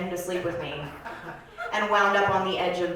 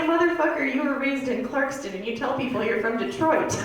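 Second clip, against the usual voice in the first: exasperated retort; 5 semitones higher than usual. Acted. Calling out boyfriend's fake accent.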